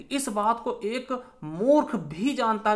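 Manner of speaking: slow, weighted मूर्ख भी जानता है; stress on भी. Shown as a demonstration. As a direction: press down on मूर्ख भी, slowly. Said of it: "sentence पे दबाव डाल दिया".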